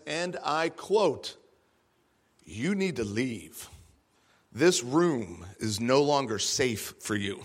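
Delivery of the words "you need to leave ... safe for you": sociopathic voice. Retold or imitated. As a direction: menace her words with eerie calm. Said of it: "in a very sociopathic kind of voice".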